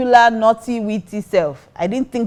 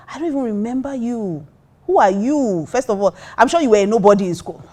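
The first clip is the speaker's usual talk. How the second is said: mildly indignant put-down; retold upset comeback; 4 semitones higher than usual. Upset woman answering the drunk guy, retold indignant comeback. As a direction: re-enact a cutting comeback with some heat. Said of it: "I was really upset".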